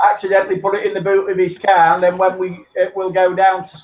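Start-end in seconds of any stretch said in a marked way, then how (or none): 0.1-1.9 repeated faster for clarity. Real, not acted. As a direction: say it again, quicker and clearer. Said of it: "in what?".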